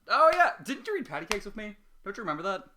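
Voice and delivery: squealing high-pitched delight; excited recognition. Acted. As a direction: shriek with sudden recognition.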